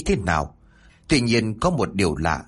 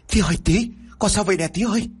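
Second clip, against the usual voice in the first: desperate calling; 9 semitones higher, faster than usual. A narrator's reading. Tuấn calls to the drowned boy, high and anguished. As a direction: cry out to the limp child.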